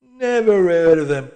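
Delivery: short, dismissive barman; curt. A narrator's reading. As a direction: clip it off, unimpressed. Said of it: "said the barman shortly".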